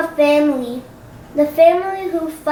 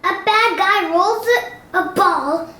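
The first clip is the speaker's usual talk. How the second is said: scolding; 5 semitones higher than usual. Acted. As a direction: chew him out for failing again. Chief scolding Dogman.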